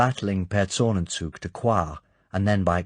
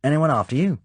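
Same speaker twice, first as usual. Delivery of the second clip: urgent Muir; 8 semitones higher, 6 dB louder than usual. A narrator's reading. Muir checks the street.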